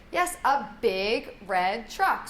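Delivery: BIG drawn out slowly in "a big red truck"; stress on BIG. Shown as a demonstration. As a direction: stretch BIG to highlight the new word. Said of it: "highlight the new word with".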